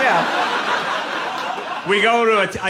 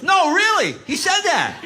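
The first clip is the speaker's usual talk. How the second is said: higher and louder, mock insistence; insistent Boston guy; 13 semitones higher, 4 dB louder than usual. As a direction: play the stranger pressing his point, amused. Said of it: "He goes".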